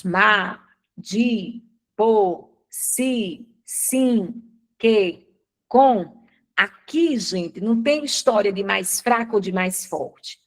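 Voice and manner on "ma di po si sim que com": "ma, di, po, si, sim, que, com" as separate beats; evenly stressed monosyllables. Shown as a demonstration. Teacher pronouncing the monosyllables one by one, equally stressed. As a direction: give each of "ma, di, po, si, sim, que, com" equal weight, pausing between. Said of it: "vou pronunciá-los".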